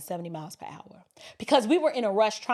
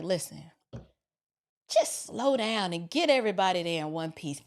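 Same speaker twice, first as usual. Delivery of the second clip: low, soft, measured caution; civil advice; 6 semitones lower, 3 dB quieter than usual. Retold or imitated. Officer letting a speeding driver go, calm and civil. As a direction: let them off with a calm word. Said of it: "two men having a civilized discussion".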